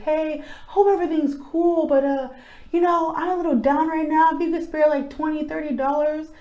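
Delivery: retold sheepish request. Voicing an ex-colleague asking for money.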